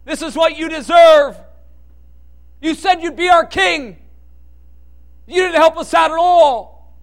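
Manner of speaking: preacher voicing the crowd's loud taunts at the cross; jeering crowd. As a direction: hurl it at him like an angry mob. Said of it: "As the crowd cried out".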